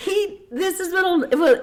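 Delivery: high, slow words broken by laughter; laughing. Real, not acted. Telling the courtroom story, laughing through it. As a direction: laugh your way into the punchline.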